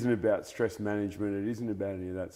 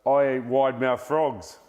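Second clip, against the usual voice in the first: crocodile voice; 4 semitones higher, 7 dB louder, slower than usual. Acted. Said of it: "And the crocodile goes".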